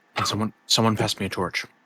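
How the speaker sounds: very low, hushed, barely-voiced whisper. Tabletop player's character goes over to the bars to ask for a torch, very low whisper. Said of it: "in a very low whisper".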